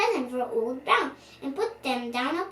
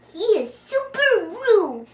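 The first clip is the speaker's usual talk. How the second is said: high, loud gasp of shock at his rudeness; 7 semitones higher, 7 dB louder than usual. Real, not acted. Reader telling the child about rude Nutkin, shocked. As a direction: sound scandalised.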